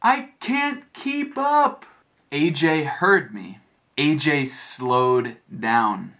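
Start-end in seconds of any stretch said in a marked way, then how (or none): 0.0-1.8 yelling out. Retold or imitated. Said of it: "I yelled to A J". 4.0-6.1 slowed down. Shown as a demonstration. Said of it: "He ran slower".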